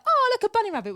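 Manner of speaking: high, bright mock delight at a bunny rabbit; mock delighted gasp. Teasing tourists who gasp at a rabbit, high mock delight. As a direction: pitch it way up like a thrilled tourist. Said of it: "you should be like".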